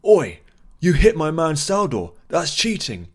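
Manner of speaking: loud, high, furious bellow; angry snarl. Acted. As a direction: roar it at the cheater. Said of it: "snarled at Sagar".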